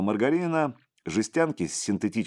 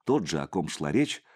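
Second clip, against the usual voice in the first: plain reading voice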